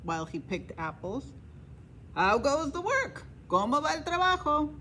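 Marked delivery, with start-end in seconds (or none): 2.2-4.7 raised, lazy farmer calling from bed; a hint of a bossy farmer, questioning lift. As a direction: call out like a lazy boss, asking up high. Farmer calls to the duck.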